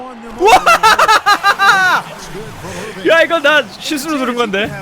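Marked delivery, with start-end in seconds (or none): 0.6-3.0 long high rising laugh. Real, not acted. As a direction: crack up in disbelief. Laughs at a lucky accidental play.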